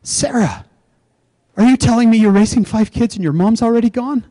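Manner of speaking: a listener moved by what she hears; compassionate concern. Retold or imitated. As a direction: lean in with real concern. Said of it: "She went".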